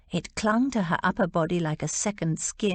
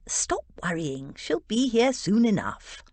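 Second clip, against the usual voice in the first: Sink, reassuring; 4 semitones higher than usual. Acted.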